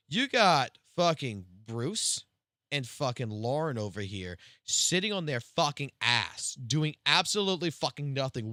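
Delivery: retold argument, swear words punched; heated complaint. Arguing with his boss in front of coworkers, mildly heated. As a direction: vent indignantly, as if re-arguing it. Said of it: "We got into a heated argument".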